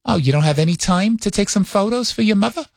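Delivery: light New York-accented mom impression; mock motherly questioning, New York accent; mother's New York accent. Mother asks son about his trip, light New York accent. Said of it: "talks like this all the time".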